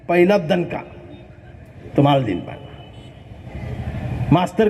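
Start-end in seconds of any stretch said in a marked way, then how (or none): 0.1-2.7 menacing threat. Retold or imitated. Nana threatens the teacher.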